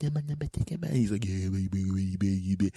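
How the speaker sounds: mock murmur. Imitating boyfriend's murmur.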